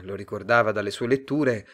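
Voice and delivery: ordinary delivery, nothing marked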